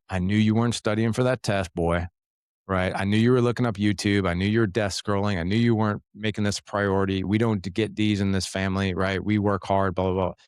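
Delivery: half-hearted imitation of the lecturing dad voice; scolding dad lecture. Dad imitating the lecture he wants to give his son, mild mock scolding. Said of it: "That's what I wanna say".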